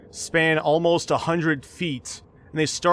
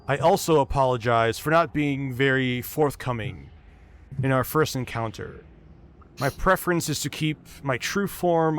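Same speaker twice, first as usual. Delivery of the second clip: lightly voiced deep, measured dragon; a touch of a deep, formal old dragon; 3 semitones lower than usual. Ancient gold dragon apologizes to the party, lightly deepened voice. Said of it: "speaks out in a deep but recognizable voice".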